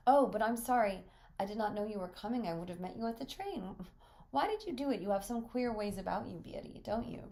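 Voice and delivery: apologetic male visitor. Acted. Visitor sorry he missed her train, lightly effusive. Reader plays Robert apologising to Beatrice.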